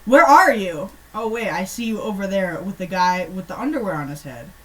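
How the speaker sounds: mock-excited letter ending in a yell; lively kid letter. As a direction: read a silly child's letter with gusto. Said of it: "written by ten-year-olds".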